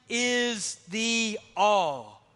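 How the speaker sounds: "all" stretched long and firm; slow right down to land on "all"; each word spaced out, "all" held longest; stress on all. Shown as a demonstration. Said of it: "The emphasis on the problem of sin".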